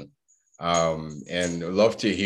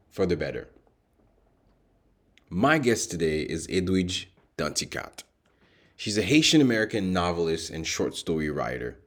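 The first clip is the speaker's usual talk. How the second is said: measured host read with deliberate pauses; scripted podcast introduction. Acted. Host welcomes listeners and introduces guest Edwidge Danticat, scripted introduction read. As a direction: read it as a composed show opener, phrase by phrase.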